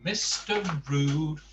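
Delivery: lively storybook read-aloud; reading to children. Acted. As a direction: tell the story to a child, playful. Reads a Mister Men book aloud.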